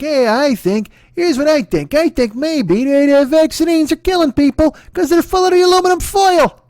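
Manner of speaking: hammed-up conspiracy crank. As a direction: sell it like a proud crackpot theory. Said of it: "Every shitheel ... he's like".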